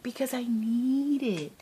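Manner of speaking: high, loud, drawn-out insistence; mock pleading. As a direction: stretch it out like a playful protest. Retells arguing back to son.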